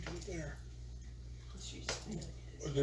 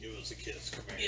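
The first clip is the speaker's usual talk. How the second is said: mayonnaise lady voice; 6 semitones lower, 11 dB quieter than usual. Pretend. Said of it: "mayonnaise lady voice".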